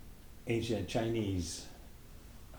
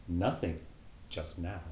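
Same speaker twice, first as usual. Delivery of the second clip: rather sadly. Acted. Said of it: "She answered rather sadly".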